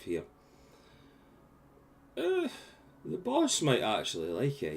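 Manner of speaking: loud, excited goblin doorman. Acted. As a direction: bark it like a cheeky goblin. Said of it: "Okay, you goblin nut".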